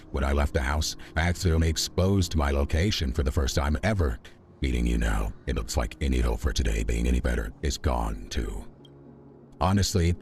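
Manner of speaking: lightly voiced arrogant overlord; a hint of a grand villain voice; booming arrogant alien overlord. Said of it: "I am the dumb overlord voice".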